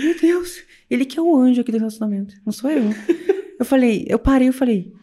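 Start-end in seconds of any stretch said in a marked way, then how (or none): 0.0-2.8 amused mock awe.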